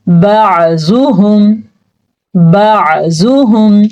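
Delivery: बाजुहुम with a clear throat ain. Shown as a demonstration. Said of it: "आइन को वाज़िया करके पढ़ने". (आइन वाज़ेह)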